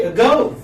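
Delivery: "ago" as uh-GO; teacher modelling "ago" with a light first vowel; second-syllable stress. Shown as a demonstration. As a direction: lean on "go" in "ago". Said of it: "giving stress on the second syllable".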